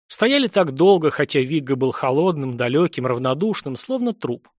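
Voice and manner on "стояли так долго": usual speaking voice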